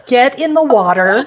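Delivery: tense little laugh before the order; mock-polite order with a chuckle. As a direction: coax through a small forced laugh. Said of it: "That little laugh".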